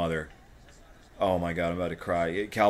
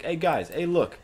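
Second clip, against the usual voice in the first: showing off; 9 semitones higher, 4 dB louder, slower than usual. Pretend. Pretends calling friends to look.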